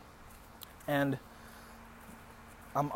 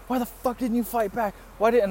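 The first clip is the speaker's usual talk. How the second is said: high-pitched mock scolding; imitated berating; 7 semitones higher than usual. Girl berating her beaten date in taxi, imitated scolding. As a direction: scold him in a pitched-up mimic.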